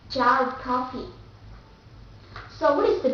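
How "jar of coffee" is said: jar of coffee in British English; British jar, R linked to "of"; British accent. Shown as a demonstration. Teacher giving the last example, British accent. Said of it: "the second will be British accent".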